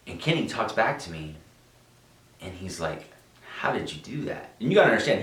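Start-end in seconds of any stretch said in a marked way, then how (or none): 3.6-4.5 quiet question in a lightly imitated Venezuelan accent; accento: Venezuelan accent. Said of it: "he has a heavy accent".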